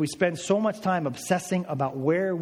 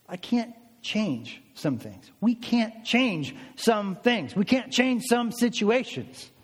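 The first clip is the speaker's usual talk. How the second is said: slow emphasis; 3 semitones higher, slower than usual. Real, not acted. Slow repeated sermon point.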